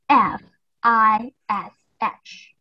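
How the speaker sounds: letters spaced out one by one; slow spelling. Shown as a demonstration. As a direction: spell fish letter by letter for the kids. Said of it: "I will spell the word".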